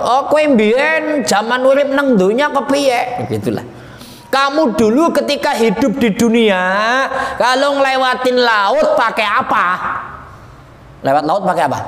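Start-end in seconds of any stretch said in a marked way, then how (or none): 0.0-3.2 high, projected Javanese question; Javanese Jibril. Acted. Angel questions the souls, lightly voiced Javanese speaker. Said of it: "Dari Jawa". 4.3-9.7 high, projected questioning; Jibril. Acted. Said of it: "Malaikat Jibril ngomong".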